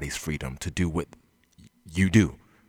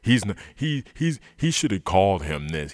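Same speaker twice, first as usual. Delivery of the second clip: mock critic; 3 semitones lower than usual. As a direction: sneer it like a self-righteous pundit. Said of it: "how dare he break this unwritten law".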